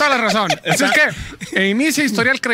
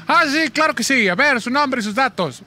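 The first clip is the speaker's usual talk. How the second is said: slow, singled-out official courtesy; bank clerk; 3 semitones higher, slower than usual. Retold or imitated. Bank employee taking a customer's details, slow mock courtesy. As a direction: imitate an obliging employee, slowly. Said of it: "me dice".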